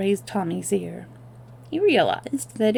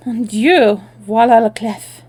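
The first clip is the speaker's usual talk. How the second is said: loud French surprise; French exclamation; 3 semitones higher, 9 dB louder than usual. Acted. Annette feigning surprise.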